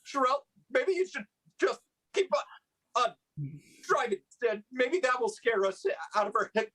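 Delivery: fast, hiccuping words; gulping hiccups between words. Pretend. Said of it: "you all suddenly have the hiccups".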